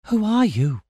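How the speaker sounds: high-pitched wary question; startled girl. A narrator's reading. Bound Amira questions the approaching stranger, startled.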